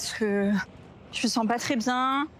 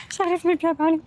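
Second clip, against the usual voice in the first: higher and louder, fed up with herself; exasperated outburst; 6 semitones higher, 4 dB louder than usual. Real, not acted. Vlogger venting to viewers, exasperated. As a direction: blurt it out, annoyed at stumbling.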